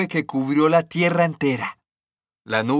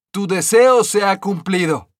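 higher, louder fairy voice; fairy granting a wish; 5 semitones higher, 5 dB louder than usual. A narrator's reading. Green fairy to the stonecutter, grand higher voice.

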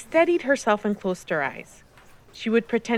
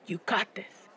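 soft echo in her head; remembered encouragement; 8 dB quieter than usual. A narrator's reading. Uncle's words repeating in niece's head, softly. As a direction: say it softly, like a thought. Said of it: "Her tío's words kept repeating".

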